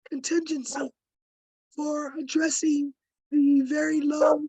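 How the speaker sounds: losing her voice, hoarse and strained. Real, not acted. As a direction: speak through a worn-out hoarse voice. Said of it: "I'm sorry, I'm losing my voice".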